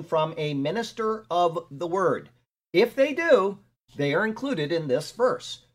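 measured, emphatic reading of study notes; commentary read aloud. Real, not acted. Teacher reading verse notes to a class, deliberate read-aloud. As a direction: read it out deliberately, leaning on key words. Reads own written commentary.

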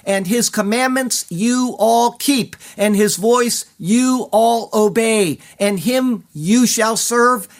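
solemn emphatic rendering of the Hebrew, drawn out slow; emphatic reading. Shown as a demonstration. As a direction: press every "him" and "you" home with a strong final "hold fast". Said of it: "The Hebrew is more personal and emphatic".

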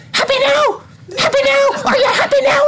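high, shouting; mock furious. Bellboy sneering at the fallen guest, high mock fury. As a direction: hurl it down at him in a mock rage. Bellboy throws paper on victim.

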